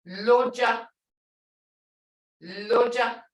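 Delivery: "Loja" ending in a short "uh"; short vowel. Shown as a demonstration. Teacher asking short or long, short vowel. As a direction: keep the last vowel of "Loja" brief. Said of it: "it's short".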